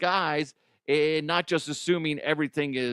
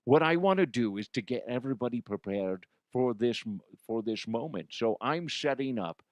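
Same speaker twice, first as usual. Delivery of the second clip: Connery voice. Pretend. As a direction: play Connery butting in to give his two cents. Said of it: "Connery, seriously".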